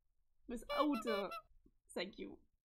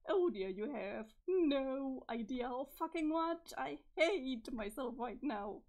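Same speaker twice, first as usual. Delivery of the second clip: tearful self-loathing; 5 dB louder, slower than usual. Acted. Character spirals into self-hatred.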